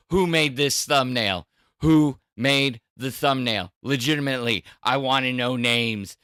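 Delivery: loud, imitated demand; retold demand. Streamer popping into voice chat asking who made it, mock loud demand. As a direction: play someone demanding answers. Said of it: "He's like".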